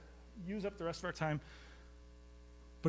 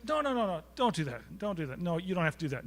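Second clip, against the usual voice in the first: excited protest; 3 semitones higher than usual. Retold or imitated. Retold protest at the counter.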